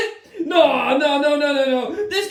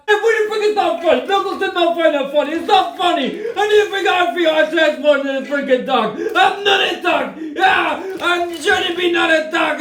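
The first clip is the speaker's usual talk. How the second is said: fast, raised, indignant yelling; angry protest. Acted. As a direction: snap back at the teasing friend. Knuckles angry at Sonic.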